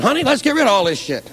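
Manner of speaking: mock panic. Panicky anti-nuclear husband.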